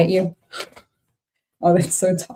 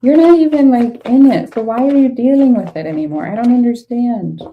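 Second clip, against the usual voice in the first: exasperated outburst; 6 semitones higher, 4 dB louder than usual. Real, not acted. Reader scolding querent over toxic bond.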